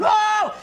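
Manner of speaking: hammed-up high yelp of alarm; a short, mock-frightened high "Oh!"; mock scream. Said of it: "run around screaming".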